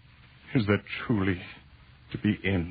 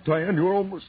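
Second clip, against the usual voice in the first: urgent cry; 9 semitones higher, 6 dB louder than usual. Acted. Straining to reach Diane.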